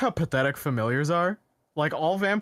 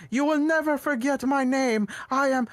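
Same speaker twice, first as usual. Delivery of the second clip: booming general; 10 semitones higher than usual. Retold or imitated. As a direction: proclaim it from the cliff top. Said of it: "was went".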